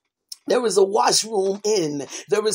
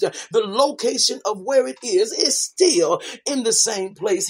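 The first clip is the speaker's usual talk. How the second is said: fervent preaching; 4 dB louder than usual. Acted. Preacher urging the congregation to come back in, fervent. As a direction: lean into each line like a sermon call. Preacher pleads, door still open.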